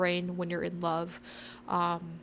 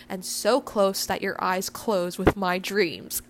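poetry reading. Acted. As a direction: read it gently, like a love poem. Reads a Neruda sonnet aloud.

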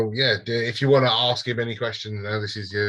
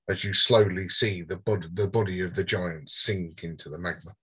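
game master narration; 2 semitones lower than usual. Acted. Game master describes the fire giant's fall, measured narration.

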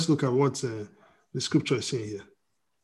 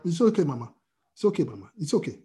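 real reassurance; 2 semitones lower, 5 dB quieter, faster than usual. Real, not acted. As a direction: gently reassure Mama. Reassures someone during the reading.

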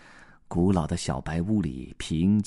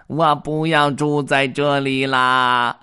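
slow, louder, higher wailing; slow tearful wail; whimpering duck; 7 semitones higher, 7 dB louder, slower than usual. Acted. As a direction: wail it like a hurt little duck. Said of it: "鸭子哭哭啼啼地说".

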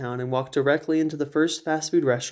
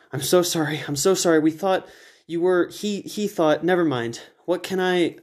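flustered, panicky apology; stumbling over words; 4 semitones higher than usual. Acted. Narrator apologizing to the bleeding hunter, flustered. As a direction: babble it out in a panic. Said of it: "I stumble over my words".

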